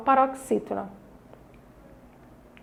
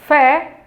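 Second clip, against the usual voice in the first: "fé" punched out on its own; firm, demonstrative "fé"; stressed syllable; 2 semitones higher, 4 dB louder than usual. Shown as a demonstration. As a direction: isolate "fé" and give it force. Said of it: "foi pronunciada com mais intensidade".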